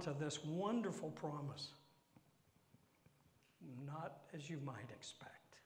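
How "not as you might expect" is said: soft unvoiced whisper; whispered hint of trouble. Real, not acted. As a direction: confide it in a whisper. Whispered aside.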